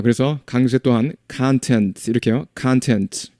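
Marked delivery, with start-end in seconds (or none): 1.3-3.3 content stressed on the first syllable, CON-tent; stress on the front. Shown as a demonstration. Teacher showing content as noun, CON-tent. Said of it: "목차는 앞에 온다고 그랬습니다".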